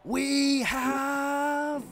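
voice breaking. Real, not acted. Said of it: "my voice is breaking".

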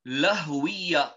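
Lahwiya said carefully with Arabic h; term Lahwiya. Shown as a demonstration. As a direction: give Lahwiya its Arabic sounds. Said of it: "or they are known as".

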